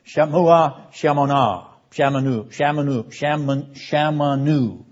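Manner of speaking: "Shamua ... Shamanu" chanted out, the last one slowed; Hebrew sounded out. Shown as a demonstration. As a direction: roll through "Shamanu" with the echo of the sounds. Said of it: "In this emphatic duplication".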